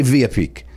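"Villa" as VEE-ya; Spanish pronunciation. Shown as a demonstration. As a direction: swap the L's in "Villa" for a y sound. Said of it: "you would pronounce it that way".

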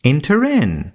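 enter in, then hold a long dramatic pause; dramatic pause after it. Shown as a demonstration. Reading the verse to students with a dramatic pause after enter in. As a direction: land enter in, then stop for effect. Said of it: "dramatic pause".

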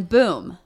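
loud punched "boom"; sudden boom. Retold or imitated. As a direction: drop the boom like an impact. Imitates the plane's sudden bang.

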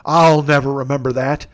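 lightly voiced forgetful old man; mildly mock a grandpa giving up; a hint of an old-timer; Officer Irwin. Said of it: "you're a thousand years old".

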